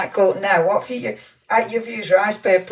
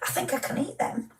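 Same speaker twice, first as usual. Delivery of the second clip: softer whispered hope, a little quicker; hopeful whisper; 8 semitones higher, 10 dB quieter, faster than usual. Real, not acted. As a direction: whisper it to yourself, hoping. Hoping the biscuits are safe.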